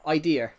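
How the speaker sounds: idea ending with an added r, idear; accent demo. Shown as a demonstration. Showing chat his accent, idea said as idear. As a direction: say idea with an r tacked onto the end. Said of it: "the A adds a bit of an error onto the".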